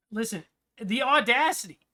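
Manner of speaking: loud, high, hammed-up indignation; mock outrage. Streamer ranting about the British, hammed-up outrage. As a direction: play scandalized, voice leaping up.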